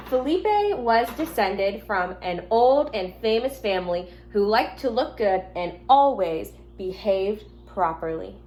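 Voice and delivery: gentle storybook reading to the class; reading to children. Acted. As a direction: read it like a teacher at story time. Teacher reads picture book aloud.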